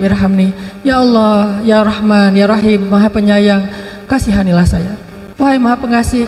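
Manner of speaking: low, pleading, begging again and again; like a grandmother whimpering to God; whining plea. Retold or imitated. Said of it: "Ilhah itu artinya merengek". (rintihan memohon dengan suara rendah)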